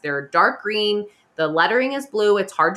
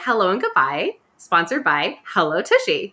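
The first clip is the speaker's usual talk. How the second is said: put-on Valley Girl. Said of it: "That was really Valley Girl".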